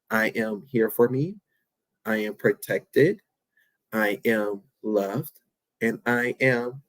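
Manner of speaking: slow, gentle self-affirmations said with care; slow soft affirmations. Shown as a demonstration. Host guiding listeners through self-love affirmations, slow and gentle. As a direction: speak each line slowly as a promise to yourself. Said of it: "by saying".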